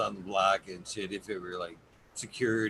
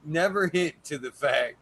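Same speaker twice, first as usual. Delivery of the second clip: excited; 6 semitones higher, 8 dB louder than usual. Real, not acted. Excited pitch for a show.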